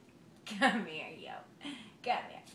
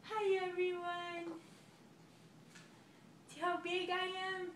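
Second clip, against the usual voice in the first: voicing the baby; 3 semitones higher, 4 dB quieter, slower than usual.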